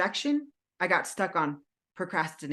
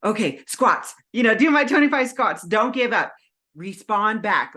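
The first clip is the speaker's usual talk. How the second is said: self pep talk; 3 semitones higher, 6 dB louder than usual. Retold or imitated. Pep talk to herself after rejections.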